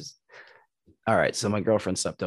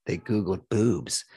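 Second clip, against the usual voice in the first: slow, heavy mock dad voice; mortified dad; much slower than usual. The neighbor dad confessing, slow mortified mock voice. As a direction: drag it out like an embarrassed father. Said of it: "And the dad goes".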